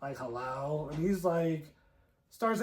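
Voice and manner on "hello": low, soft creepy hello; a hint of a creepy phone voice. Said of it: "like, a creepy voice".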